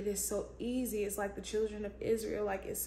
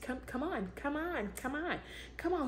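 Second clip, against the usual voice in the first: much softer, gentle coaxing call; still small voice; 3 semitones higher, 5 dB quieter than usual. Acted. God's still small voice softly calling her closer. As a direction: coax softly like a hushed voice. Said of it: "that still small voice that is saying".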